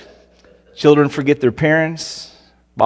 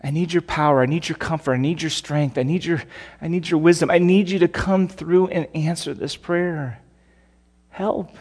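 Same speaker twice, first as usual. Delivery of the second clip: hushed, pleading, softer prayer; quiet prayer for help; 2 semitones higher, 5 dB quieter than usual. Retold or imitated. A believer crying out to the Lord, a soft pleading prayer. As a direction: murmur it like a desperate prayer. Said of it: "cry out to him with those words".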